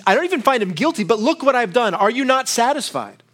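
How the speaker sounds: mock exasperated governor; pleading Pilate. Preacher voicing Pilate pleading.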